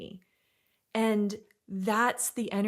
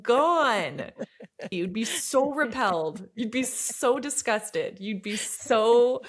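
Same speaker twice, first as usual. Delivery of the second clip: high, loud, slow words through laughter; drawn-out emphasis, cracking up; laughing exaggeration; 4 semitones higher, 6 dB louder, slower than usual. Real, not acted. Coach telling Michelle how unbearable her guard is, laughing.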